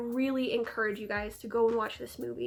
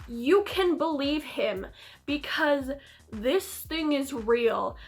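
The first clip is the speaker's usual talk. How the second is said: mock tearful Mina; 4 dB louder, slower than usual. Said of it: "starts crying, and she's like".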